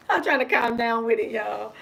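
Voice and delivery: high, laughing confession to viewers. Real, not acted. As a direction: repeat it through a high laugh.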